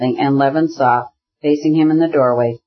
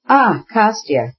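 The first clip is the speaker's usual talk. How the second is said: higher, slow, joyful recognition; slow, lifted cry of glad surprise; sudden exclamation; 7 semitones higher, slower than usual. A narrator's reading. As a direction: call his name out in sudden delight. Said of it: "he exclaimed suddenly".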